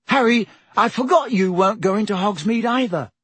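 put-on high, eager timid boy; chirpy and a little nervous; Neville voice.

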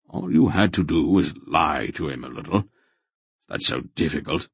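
quick, offhand reproach; grandfather, impatient. Acted. Grandfather telling the boy to lie a little, impatient. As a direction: toss it off as an easy answer.

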